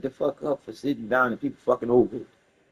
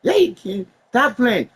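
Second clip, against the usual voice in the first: higher, louder scolding; mock cop shout; 8 semitones higher, 5 dB louder than usual. Cop scolding him as a faker, loud mock shout. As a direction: snap it like a cop who thinks he's faking. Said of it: "that motherfucker said".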